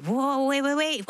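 high, startled protest; acted alarmed halt. Host voicing bewildered wives after the wedding, high mock alarm. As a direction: halt someone in sudden disbelief. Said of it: "So many of us wives feel like".

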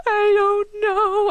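high, stretched-out whiny cry; mock tearful wail. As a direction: imitate wailing helplessly, dragging the words. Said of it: "I start crying".

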